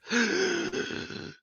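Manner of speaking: high sudden gasp; acted jolt-awake intake of breath; waking gasp. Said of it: "And he wakes up".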